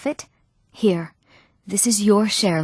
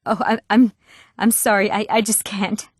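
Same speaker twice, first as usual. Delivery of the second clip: halting, stammered refusal; hesitant, broken up by pauses; flustered apology. Acted. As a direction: stumble through an awkward apology.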